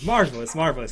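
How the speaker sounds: toasting approval; a touch of delight. Acted. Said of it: "raises a glass to you".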